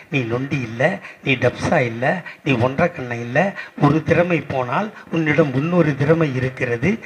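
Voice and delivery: solemn declaimed storytelling of the leader's deed; measured political oration. Acted. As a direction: declaim it with restraint, rising at the end. Returns to declaimed praise.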